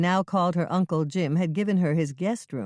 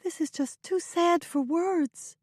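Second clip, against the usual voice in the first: upset; 13 semitones higher, slower than usual. A narrator's reading. Upset sister reacts to story.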